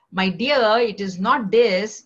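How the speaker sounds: lightly sarcastic, drawing it out to a friend; mock sarcastic. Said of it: "Sometimes we say sarcastically".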